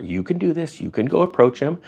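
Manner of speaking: softly coaxing, retold handler; gentle encouragement. Handler urging a young lady to approach him, softly encouraging. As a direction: imitate a softly spoken pep talk. Handler reassuring the student, hand on shoulder.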